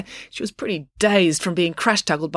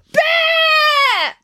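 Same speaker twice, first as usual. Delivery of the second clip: high, loud shriek of terror; terrified scream; 6 dB louder than usual. A narrator's reading. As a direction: scream the warning in panic. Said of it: "she screamed a word".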